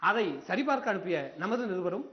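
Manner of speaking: formal newsreader delivery; news read. Acted. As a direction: read it like a TV bulletin.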